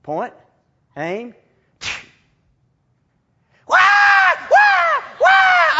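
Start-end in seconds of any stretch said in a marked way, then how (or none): 3.7-5.8 loud, high mock child's wail; hammed-up kid crying out; imitated wailing. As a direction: wail like a shot little girl. Girl crying after BB shot.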